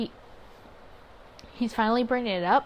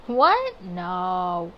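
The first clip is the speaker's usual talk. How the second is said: shocked what; 3 semitones lower, 5 dB louder than usual. Real, not acted. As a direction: blurt it out in shock, voice jumping up. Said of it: "I said that like".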